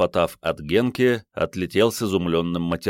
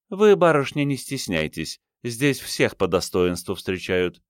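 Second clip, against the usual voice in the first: sweet-sour headmistress voice; 3 semitones higher than usual. Acted. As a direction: act the gracious hostess. Okhlobystina to Manya.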